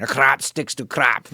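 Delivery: slow, emphatic mock African accent; a poor imitation of an African accent, drawn out; attempted African accent. Quoting his college organic chemistry teacher's saying, attempted African accent. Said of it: "I can't do the African accent".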